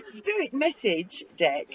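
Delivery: Spirit message deck said slowly and carefully with every sound clear; careful repeat. Shown as a demonstration. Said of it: "Teeth slipped".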